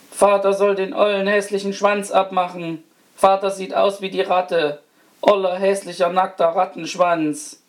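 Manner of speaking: put-on high, whiny little-child wail; weeping small child. A narrator's reading. Smallest child wailing at father about the tail, tearful cry. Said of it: "fing an zu weinen und rief".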